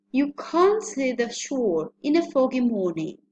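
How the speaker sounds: "can't" said with the open ah vowel; model sentence with can't. Shown as a demonstration. Teacher demonstrates the example sentence, carefully. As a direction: read it as a clear pronunciation example. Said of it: "So the pronunciation would be".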